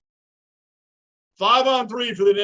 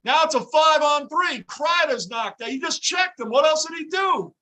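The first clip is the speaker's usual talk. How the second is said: incredulous; 7 semitones higher than usual. Real, not acted. Disbelief at five-on-three.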